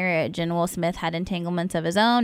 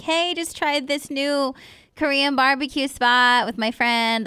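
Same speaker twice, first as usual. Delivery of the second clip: mock chirpy post; 6 semitones higher, slower than usual. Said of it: "you're like".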